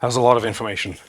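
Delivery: a little out of breath; slightly winded after a long stretch. Real, not acted. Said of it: "I'm kind of out of breath".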